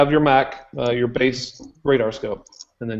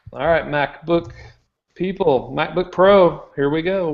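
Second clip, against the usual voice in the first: raised pitch, big news reveal; hyped-up announcement; 5 semitones higher than usual. Pretend.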